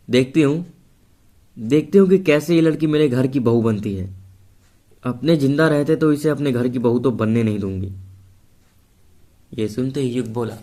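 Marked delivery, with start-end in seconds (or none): 0.1-7.9 angry threat. Acted. Aarti angrily refuses the match.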